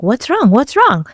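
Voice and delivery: retold confusion, each question rising high then falling; confused alarm. Partner finds her crying, confused and asking. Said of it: "'cause he's confused".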